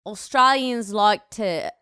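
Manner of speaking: slow, careful Australian accent. Shown as a demonstration. Second try at how Australians talk, Australian accent. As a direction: draw out an attempted Australian accent. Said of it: "That's better".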